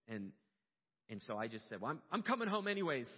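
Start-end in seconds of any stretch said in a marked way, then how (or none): 1.8-3.1 high, loud, emotional burst; overcome with emotion. Real, not acted. Father telling wife he is coming home, overcome with emotion. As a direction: voice surging up with relief. Relieved father retells his reply.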